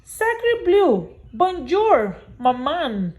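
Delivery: put-on high, excited baby duckling greeting; baby duck. Newborn duckling greeting Jack as maman, high and eager. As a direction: pipe it up to mama. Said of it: "looked up at Jack and said".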